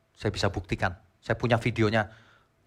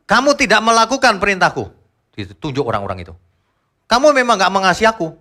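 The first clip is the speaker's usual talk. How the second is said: stern Jesus voice; 9 semitones higher, 7 dB louder than usual. Acted. Jesus voiced rebuking people.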